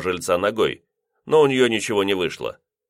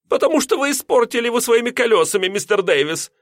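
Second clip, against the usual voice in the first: much higher, fast indignant landlady; rapid scolding; 4 dB louder than usual. A narrator's reading. Landlady blaming the lodger's wheels, fast and high. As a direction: rattle off the accusation.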